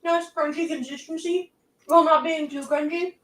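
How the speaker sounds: talking with a mouth full. Real, not acted. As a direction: chew and talk through the bite. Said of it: "Sorry for speaking with my mouth full".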